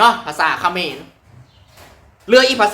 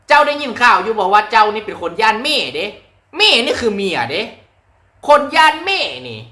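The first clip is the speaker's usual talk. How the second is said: a touch higher Phu Thai Isan dialect; 4 semitones higher than usual. Shown as a demonstration. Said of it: "นครพนมก็มีภาษาภูไทยเด้ อย่างเช่น".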